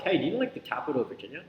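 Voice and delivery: quick question, rising on "Virginia"; questioning intonation. Shown as a demonstration. Coach showing question tonality, questioning intonation. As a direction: ask it briskly, lifting "Virginia". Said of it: "Because of that tonality".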